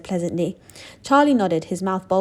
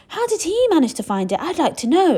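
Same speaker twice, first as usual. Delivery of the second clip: high, loud angry shout; 10 semitones higher, 5 dB louder than usual. A narrator's reading. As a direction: shout it in jealous anger. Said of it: "a large boy shouted angrily".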